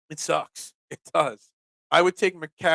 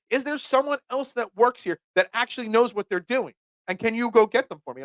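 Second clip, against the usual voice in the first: mock rude customer; 5 semitones higher than usual. Rude customer demands someone else.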